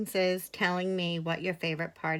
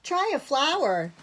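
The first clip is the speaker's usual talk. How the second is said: offering; 7 semitones higher than usual. A narrator's reading. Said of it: "offered Little Bear".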